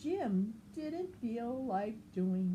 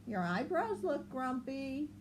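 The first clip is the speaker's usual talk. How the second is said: higher, quick questioning voice; Lemur asking; 6 semitones higher than usual. Acted. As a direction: ask it briskly and up high. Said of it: "said Lemur".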